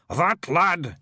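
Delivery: high, loud proud pride. A narrator's reading. William proudly praising the poet to the clan. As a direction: announce it with pride. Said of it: "he said proudly".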